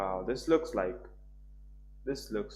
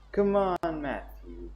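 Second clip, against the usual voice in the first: whining shout; 6 semitones higher, 6 dB louder, much slower than usual. A narrator's reading. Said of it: "Jack shouts in a whining voice".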